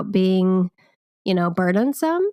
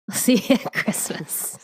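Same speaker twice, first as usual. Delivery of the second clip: laughing echo; 2 semitones higher than usual. Pretend. Echoing farewell while laughing.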